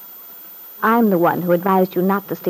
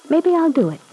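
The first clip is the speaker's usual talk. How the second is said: airy, higher-pitched start that drops off; flippant; 4 semitones higher than usual. Acted. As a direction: toss it off as a flippant parting remark. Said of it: "had been anything but flippant".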